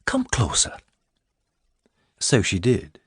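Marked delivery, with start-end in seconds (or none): 0.0-0.8 lightly voiced lady, higher, coaxing; beckoning lady. Lady coaxing the frightened girl closer, gently.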